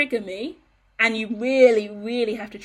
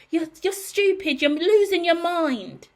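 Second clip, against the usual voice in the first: mock taunt; 7 semitones higher, 3 dB louder, slower than usual. Voicing the gaslighter mocking her.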